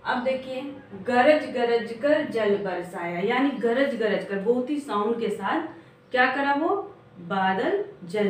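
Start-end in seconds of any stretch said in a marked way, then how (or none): 1.1-3.2 drawn-out rhyme lines read aloud; slow poem recitation. Shown as a demonstration. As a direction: recite the lines slowly, sing-song. (धीमी कविता पाठ)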